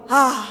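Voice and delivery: full, voiced "ah" of relief; sonorous "ah". A narrator's reading. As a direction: let out a resounding sigh. (un "ah" sonoro)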